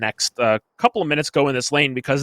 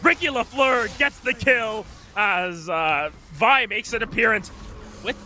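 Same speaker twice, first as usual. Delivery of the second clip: excited play-by-play; 6 semitones higher than usual. Real, not acted. Live play-by-play of a gank.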